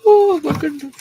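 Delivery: high startled oh my goodness; surprised. Real, not acted. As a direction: jump at something. Startled exclamation.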